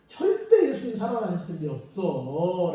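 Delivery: slow, emphatic insistence; acted stubborn denial. Preacher voicing Mary refusing to believe, stubborn denial. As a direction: draw out the words in firm mock denial.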